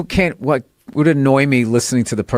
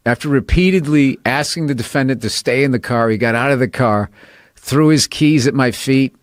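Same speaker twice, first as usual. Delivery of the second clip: even, formal police-report recital; bailiff reading. Retold or imitated. Bailiff reading the arrest report to the court, deadpan. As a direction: read the drunken outburst like a court record. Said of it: "Read it like a bailiff".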